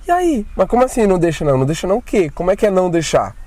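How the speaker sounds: mock-exasperated high questioning; baffled disbelief. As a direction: fire back in confused shock. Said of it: "O pessoal vem e fala assim".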